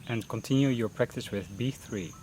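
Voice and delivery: unhurried meditation guidance with long pauses; guided meditation. Real, not acted. Teacher leading beginners through a mindfulness breathing session, guided meditation voice. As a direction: guide them gently into breath focus, pausing between phrases.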